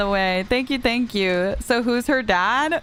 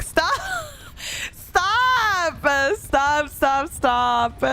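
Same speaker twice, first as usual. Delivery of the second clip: laughing protest; 5 semitones higher, much slower than usual. Real, not acted.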